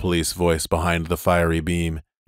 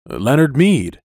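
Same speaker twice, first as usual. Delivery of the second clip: louder; 6 semitones higher, 6 dB louder than usual. Acted. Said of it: "Speak up".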